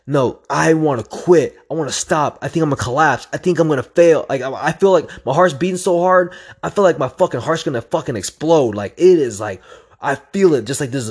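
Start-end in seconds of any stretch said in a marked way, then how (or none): 0.1-8.8 higher, urgent inner complaint; retold desperation. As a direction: relive the urge to quit, voice pushed up. Reliving urge to quit mid-run.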